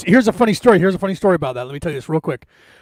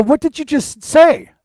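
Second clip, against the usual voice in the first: higher, louder acted disbelief; stunned question; 7 semitones higher, 5 dB louder than usual. Parents to daughter after the dog obeys, higher stunned question. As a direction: ask it as a dumbfounded onlooker.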